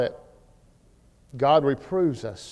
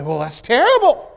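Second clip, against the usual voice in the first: mock dismay; 7 semitones higher, 9 dB louder than usual. Mock objection from some people.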